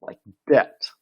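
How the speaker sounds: debt said as det with a silent B; model pronunciation. Shown as a demonstration. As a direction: show debt as a single det sound. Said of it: "you're pronouncing it like this".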